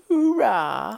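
high, loud hooray cheer; gung ho cheer. Acted. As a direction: cheer like a rowdy crowd. Cheering the show start.

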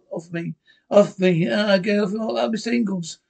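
frantic yelling while grabbed; panicked struggling. Acted. Being attacked.

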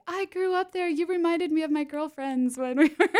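a high, giggly impression of an old lady reminiscing; old lady fan gushing after the show, high and laughing; imitating an old lady. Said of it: "old ladies would come up to me and be like".

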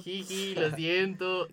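sheepish giggle. Retold or imitated. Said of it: "cagados de la risa".

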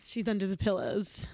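hushed whisper. Acted. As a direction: whisper so the dog won't hear. Whispering about scared dog.

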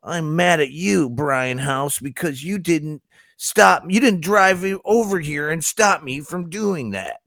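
high, drawn-out mock-teenager whine; teenage voice. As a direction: mimic an aggrieved customer as a whining teen. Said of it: "I need that teenage voice now".

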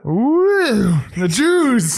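high loud mock scream. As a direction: yell it up high like a famous rapper. Imitating a rapper screaming.

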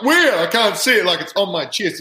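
high, alarmed "Where? I can't see it"; panicked disbelief. Retold or imitated. Rookie panicking to teammates, high alarmed squeal. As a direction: squeal out the shock of not seeing it. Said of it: "and I'm like".

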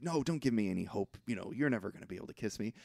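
quick dejected murmur; glum mumble. Retold or imitated. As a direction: mutter it like giving up. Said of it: "and he's like".

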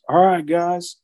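raspy voice. Retold or imitated. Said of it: "kind of a deep, raspy voice".

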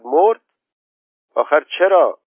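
put-on a boy yelling at terrible news; shouting boy. Khosrow shouts at his mother on hearing his horse died. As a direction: cry out high and loud in shock. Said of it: "خسرو داد زد".

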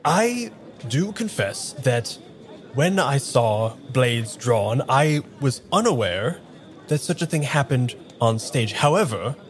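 put-on slipping into a southern accent. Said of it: "close to hitting my southern accent".

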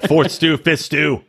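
low, sleazy bro impression; Pete. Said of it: "he's like, he's like".

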